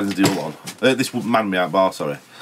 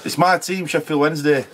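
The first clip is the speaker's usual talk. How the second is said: weird put-on voice; 7 semitones higher than usual. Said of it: "I went really weird".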